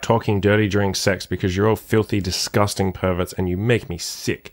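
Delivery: punchy show-opener announcer delivery; podcast intro. Acted. Host welcomes dirty-talk lovers to the podcast, punchy intro. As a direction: kick off the show like a cheeky host, drawing out the last words.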